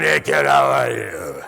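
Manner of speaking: low, slow, coarse character voice; drawled, low comic greeting; off-duty Snow White. Acted. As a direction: play a smoker on a coffee break. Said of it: "with a cigarette and a cup of coffee going".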